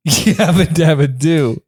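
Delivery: mock Fred yell. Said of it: "You're not doing it right".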